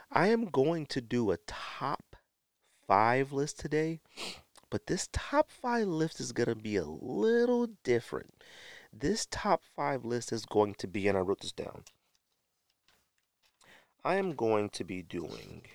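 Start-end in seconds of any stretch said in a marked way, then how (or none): 0.1-11.1 hyped announcement. Acted. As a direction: drag it out like a big reveal. Building up the announcement.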